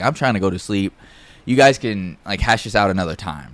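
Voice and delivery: calm, measured retold request. Roommate putting off the intruders, very calm. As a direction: reason with them evenly, no heat. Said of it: "he says it very calm".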